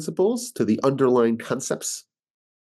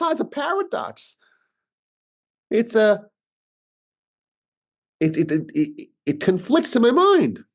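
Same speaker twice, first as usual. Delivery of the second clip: much higher, puzzled British friend; lightly voiced baffled British guy; British friend impression; 12 semitones higher than usual. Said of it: "But I met this British guy".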